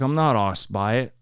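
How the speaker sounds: imitated British accent, R dropped in "arsed"; Paddy the Baddy. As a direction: say "arsed" as "ahst", lightly British. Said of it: "the accent's so cool".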